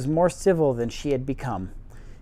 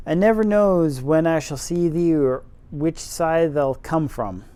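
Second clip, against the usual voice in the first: faux Yorkshire accent. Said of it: "my terrible faux Yorkshire accent".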